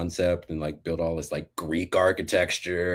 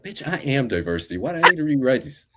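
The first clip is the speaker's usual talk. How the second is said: higher-pitched, exasperated retort; acted-out indignation, pitched up; indignant inner voice; 8 semitones higher, 6 dB louder than usual. Worker silently protesting rereading the diversity documents, indignant. Acts out own indignant thoughts.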